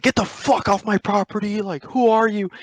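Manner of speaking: imitated angry challenge, pitched well up; angry homeowner. Armed stepdad orders strangers off his property, imitated angry challenge. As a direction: order them off, high and indignant.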